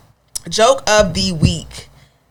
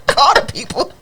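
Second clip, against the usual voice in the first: mock smartwatch assistant, a bit higher; imitating a calm device voice; robotic watch voice; 7 dB louder than usual. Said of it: "my Apple Watch was like".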